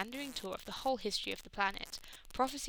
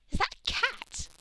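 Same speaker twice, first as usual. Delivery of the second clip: high, loud squawk of disbelief; spluttering; 6 dB louder than usual. A narrator's reading. Donna is confronted in a great temple, spluttering. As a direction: splutter it out, astonished and drawn out. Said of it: "Donna spluttered".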